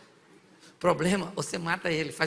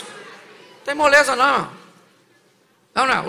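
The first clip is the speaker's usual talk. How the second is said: loud, higher, slow insistence; forceful preaching; 4 semitones higher, 9 dB louder, slower than usual. Acted. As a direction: drive it home slowly and hard.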